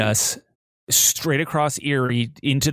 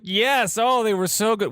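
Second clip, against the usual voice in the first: high, sugary lie; mock cheerful yes; fake sweet reply; 9 semitones higher than usual. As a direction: gush so she won't worry. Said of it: "we're like".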